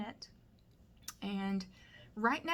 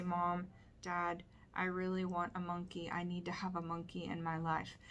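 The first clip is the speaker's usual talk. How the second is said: just recite it, without performing; deliberately dull rote delivery; boring recitation; 4 dB quieter than usual. Shown as a demonstration. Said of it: "then that's gonna be boring".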